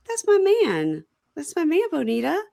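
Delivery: high-pitched, insistent retelling; retold defiant claim. Gigi claiming her man to Bonita, acted defiantly. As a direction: stake the claim to a rival.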